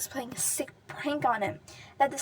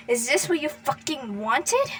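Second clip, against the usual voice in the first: angry shout; 6 dB louder than usual. Acted. Shouting at dead rival.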